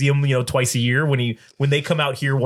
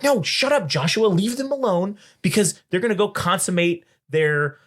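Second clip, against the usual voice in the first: higher-pitched imitation of a partner scolding; retold telling-off, pitched up; mock scolding; 6 semitones higher than usual. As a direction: act out a partner telling someone off.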